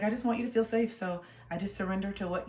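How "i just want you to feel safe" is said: gentle placating. Retold or imitated. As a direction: soothe her mom gently. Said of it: "I was like".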